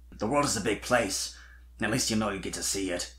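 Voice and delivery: put-on a wistful, quiet young dragon; Spike's voice. Spike agreeing with Sweetie about leaving things, low and soft.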